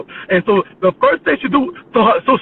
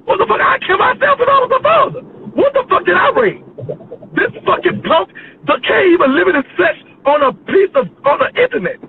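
high-pitched, exasperated ranting; outraged rant; 6 semitones higher than usual. Real, not acted. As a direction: rant in appalled disbelief. Outraged rant at the person's parents.

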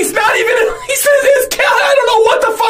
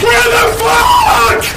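slow drawn-out angry shout; much slower than usual. Real, not acted. Streamer repeats to chat, slow furious drawl. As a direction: stretch every word in disbelief. Angry gamer dies again.

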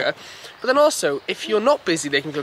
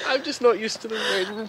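slow, slightly softer teasing imitation; mocking her emotional excuse; 4 dB quieter than usual. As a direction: echo her tearful excuse, half-joking. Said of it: "It's like when you get emotional".

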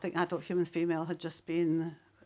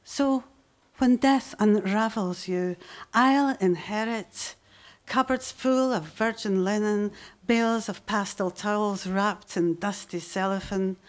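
poem reading. Acted. Poet reading the poem about her mother to the audience, measured delivery. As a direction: read the memories of mum with weight.

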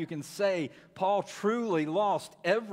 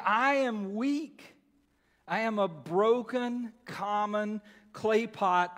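voicing Paul; 5 semitones higher, 3 dB louder than usual. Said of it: "He's saying".

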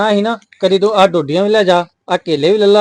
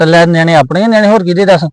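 louder, arguing back hard; raised voice; 5 dB louder than usual. Acted. Husband arguing with his wife about the kids, raised voice. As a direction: push back at her, voice raised.

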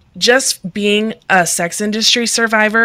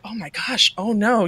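softer mock-scandalized gasp of words; pearl-clutching shock; 2 semitones higher, 6 dB quieter than usual. Churchgoers reacting to blunt facts, mock pearl-clutching shock. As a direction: imitate prim, hushed dismay. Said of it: "clutching their pearls".

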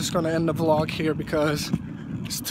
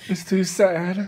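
sad laugh; slower than usual. Real, not acted.

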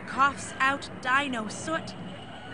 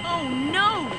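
higher, louder cry of alarm; alarmed shout; 7 semitones higher, 5 dB louder than usual. A narrator's reading. Brakemen warn the train won't stop, alarmed shout. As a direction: sound the danger call. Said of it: "the dino brakemen shout".

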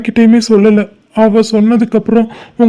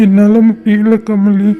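slow, broken plea; slow heartbroken admission; breaking down; slower than usual. Acted. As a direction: let the words drag out in despair. Breaking down over lost love.

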